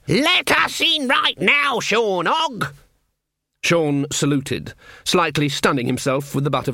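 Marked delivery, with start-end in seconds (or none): 0.1-2.7 slow, high, forceful order; stern command. Acted. Witch orders the guard to open up, slow and stern. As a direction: lay down the law.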